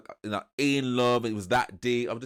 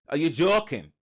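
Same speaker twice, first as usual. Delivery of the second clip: higher, louder go at Scouse; attempted Scouser accent; 5 semitones higher, 6 dB louder than usual. Woman to man walking in, incredulous attempted Scouser accent. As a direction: have a failed stab at a Scouser accent. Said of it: "I cannot do a Scouser accent".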